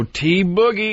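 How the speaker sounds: lightly voiced girlish greeting, a bit high; Greer impression. Comic recalls his friend greeting Travis out front, lightly imitated. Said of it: "that Greer impression sounded just like your girl impression".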